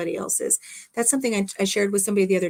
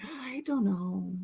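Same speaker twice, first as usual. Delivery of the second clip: weary shrug; 8 dB quieter, slower than usual. Retold or imitated. Weary reply to friend's nudging.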